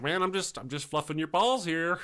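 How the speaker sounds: imitating a friend's protest; Andy. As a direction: plead innocence in a hammed-up voice. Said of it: "He's like".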